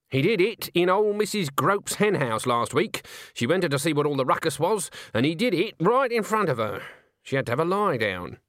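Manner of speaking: a hint of a gossiping old witch; lightly voiced Nanny.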